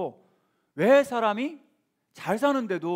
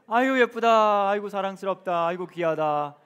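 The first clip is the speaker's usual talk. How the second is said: affectionate gushing; 4 dB louder than usual. Shown as a demonstration. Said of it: "활짝 웃어주시겠습니다".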